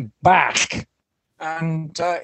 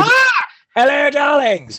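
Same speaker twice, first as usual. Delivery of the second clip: excited; 5 semitones higher, 3 dB louder than usual. Acted. Grand theatrical entrance greeting.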